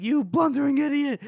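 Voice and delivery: mock furious insult. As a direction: spit the insult in hammed-up fury. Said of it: "Salt is like".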